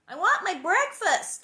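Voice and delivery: put-on high, loud little-girl demand; child shouting. A narrator's reading. Little Carrie shouting at Ma, loud. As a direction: shout it like a hungry toddler. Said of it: "Carrie shouted".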